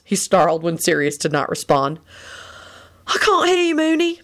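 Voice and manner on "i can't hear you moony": nasty. A narrator's reading. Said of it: "Sirius replied nastily".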